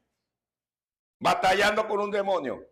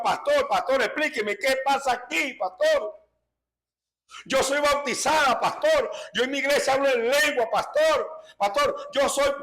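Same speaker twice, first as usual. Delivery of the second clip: higher-pitched pleading, lightly voiced crying woman; imitating a weeping sister; 5 semitones higher than usual. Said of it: "la hermanita lloraba desconsoladamente". (imitando a una hermana llorosa que suplica al pastor, con voz más aguda)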